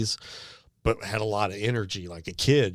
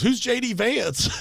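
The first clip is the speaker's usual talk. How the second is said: put-on slow, higher puzzled old lady; 13 semitones higher, slower than usual. Storyteller voicing the confused old lady, slow and higher. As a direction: ask it like a confused grandma. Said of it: "the lady goes".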